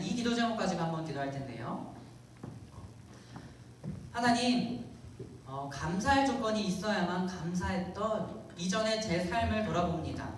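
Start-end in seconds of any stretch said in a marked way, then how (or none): 4.1-10.3 earnest prayer, lifting on key phrases; leading prayer. Acted. Pastor praying aloud for the congregation before group prayer, earnest. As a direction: lead the room into prayer, gradually more forceful.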